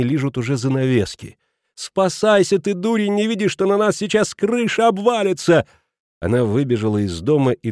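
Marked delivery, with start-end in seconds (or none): 1.7-5.7 much higher, frantic urging. A narrator's reading. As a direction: scream at him to flee. Wife shouts at husband, fire.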